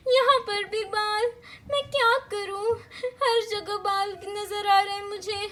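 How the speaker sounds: mother whimpering in hammed-up despair; rising pitch, worried wail; panicking mama. Mother alone finding hair everywhere, panicking.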